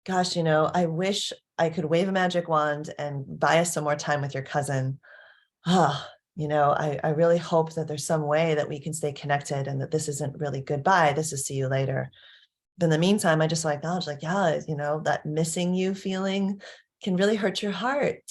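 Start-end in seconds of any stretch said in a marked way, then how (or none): 0.1-12.1 helpful empathy. Shown as a demonstration. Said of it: "a more helpful version would be like". 14.2-18.2 gentle empathy. Shown as a demonstration. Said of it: "a little more even".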